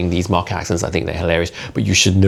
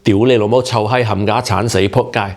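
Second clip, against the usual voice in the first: Cantonese swearing; 3 semitones higher than usual. Shown as a demonstration. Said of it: "Repeat after me".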